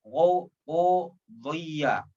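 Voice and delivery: Qudhiya, slow, with a heavy emphatic dh; careful dhad sound. Shown as a demonstration. Teacher models the dhad sound slowly. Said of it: "antara huruf dod".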